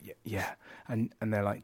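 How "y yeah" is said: softer, hesitant stammered yes; a timid, intimidated yes; nervous stammer. Retold or imitated. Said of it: "And you're like".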